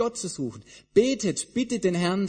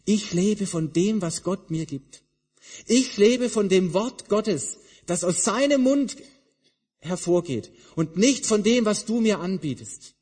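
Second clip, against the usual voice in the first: Jesus resisting; 4 semitones higher, 4 dB louder than usual. Retold or imitated. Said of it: "Und Jesus widersteht und sagt".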